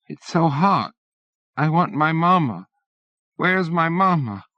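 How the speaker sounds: put-on high whiny child voice; a peevish little boy wanting his mother; childish and peevish. A narrator's reading. Small boy whining for his mama. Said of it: "childish and peevish".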